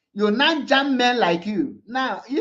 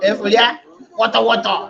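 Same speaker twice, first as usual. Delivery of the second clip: loud jeer; 6 dB louder, much faster than usual. Real, not acted. Taunting the arrested men again.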